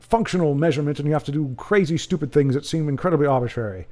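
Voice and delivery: hammed-up British accent, laying down the rules; mock British accent. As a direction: lecture in a put-on British accent. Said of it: "I should be doing this with British accent".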